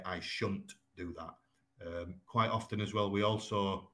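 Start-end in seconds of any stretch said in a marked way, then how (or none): 0.0-1.3 Yorkshire shan't. Shown as a demonstration. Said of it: "you would say".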